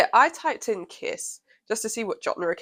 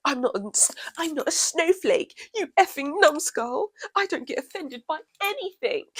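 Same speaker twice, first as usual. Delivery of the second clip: mock squeaky troll; 8 semitones higher than usual.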